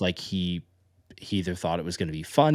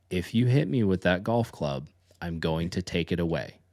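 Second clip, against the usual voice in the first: slow, controlled warning; measured parental warning. Retold or imitated. Dad warning his kid about the golf club, measured. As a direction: lay out the consequence slowly.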